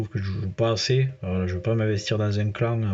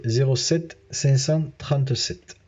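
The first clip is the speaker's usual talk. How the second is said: slow dictation; 3 semitones higher, slower than usual. Real, not acted. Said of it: "avec mon accent du sud".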